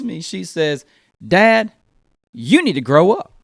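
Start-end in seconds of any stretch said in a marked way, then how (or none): 1.3-3.3 put-on child's scolding. Daughter speaks from back seat.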